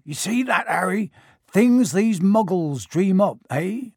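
booming and drawn out; loud. Acted. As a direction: call it out loudly to the street. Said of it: "saying loudly".

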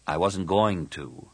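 slow, reassuring reply; gentle. Acted. Cam answers Tahiri's protest, gently and slowly. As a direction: reassure gently, taking your time. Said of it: "Cam said gently".

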